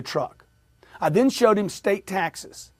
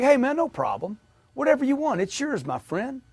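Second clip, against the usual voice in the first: easygoing higher-pitched salesman voice; upbeat agreeableness; 7 semitones higher than usual. Retold or imitated. Salesman to a customer wanting invoice price, upbeat and agreeable. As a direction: happily give the customer whatever he wants.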